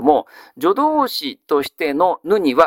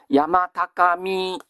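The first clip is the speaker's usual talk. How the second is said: slow recitation; much slower than usual. Shown as a demonstration. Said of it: "teacher quoting classical phrases".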